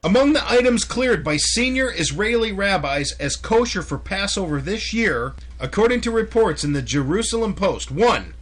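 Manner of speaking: loud, sharp news read. Acted. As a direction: belt out the headline. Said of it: "Why are you yelling?".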